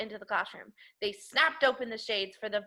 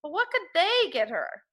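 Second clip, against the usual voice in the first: put-on child voice; 8 semitones higher, 3 dB louder than usual. Child character quote.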